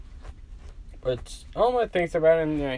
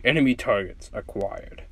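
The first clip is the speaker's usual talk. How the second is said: robot pet; 4 semitones lower than usual. Acted.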